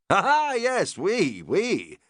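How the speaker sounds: a hint of an eager upper-class lord; English lord. Lord Errington asking his chef about foraging, lightly posh.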